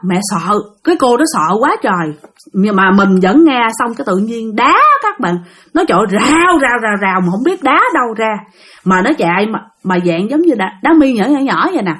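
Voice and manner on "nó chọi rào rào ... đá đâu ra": stone rattle sound. Retold or imitated. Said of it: "imitating stones pelting".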